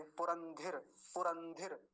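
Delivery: पुरंधिर with a short धिर; don't stretch the धि in पुरंधिर. Shown as a demonstration. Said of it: "लंबा नहीं खींचेंगे".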